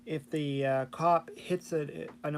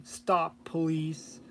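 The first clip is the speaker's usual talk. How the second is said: robot voice; much slower than usual. Retold or imitated. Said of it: "the robotic voice".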